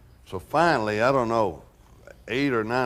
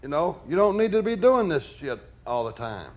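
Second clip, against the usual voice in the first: a raised, exasperated scolding; angry outburst; 6 semitones higher than usual. Retold or imitated. Bodyguard storming out of his room to scold Elvis, exasperated and raised. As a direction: snap at him to just go to sleep. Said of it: "I come storming out and say".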